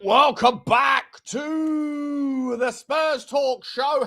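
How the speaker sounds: loud, high announcer welcome; big shout welcome. Acted. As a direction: boom out the show intro. Loud show opening greeting.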